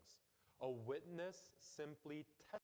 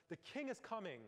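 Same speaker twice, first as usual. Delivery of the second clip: raised, high proclamation of a herald; herald calling out; 8 semitones higher than usual. Retold or imitated. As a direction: call it out to the whole square like a royal herald. Herald runs into town square.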